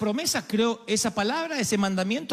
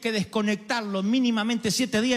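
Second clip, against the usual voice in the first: preaching shout; 5 semitones higher than usual. Real, not acted.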